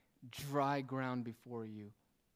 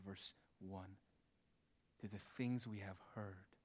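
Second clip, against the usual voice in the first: low, softer sermon delivery with long pauses; hushed preaching; 3 semitones lower, 6 dB quieter than usual. Real, not acted. Preacher warns hearers against neglecting the word, hushed preaching. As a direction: let the warning sink in quietly. Preacher drops to grave quiet.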